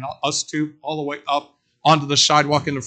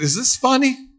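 indignant; 9 semitones higher than usual. Retold or imitated. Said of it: "And I said".

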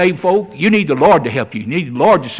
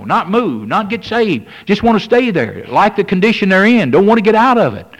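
rising rebuke; 5 semitones higher, 3 dB louder than usual. Acted. Preacher builds to rebuke.

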